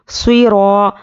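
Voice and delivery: سوئی را with heavy s and long held aa; elongated alif. Shown as a demonstration. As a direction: hold را for the length of one alif. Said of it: "ایک الف کے برابر کھینچ کر".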